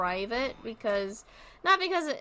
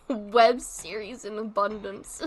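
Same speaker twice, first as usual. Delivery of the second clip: slow words through laughter; laughing; 3 dB louder, slower than usual. Real, not acted. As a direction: laugh while saying it. Laughing at own joke.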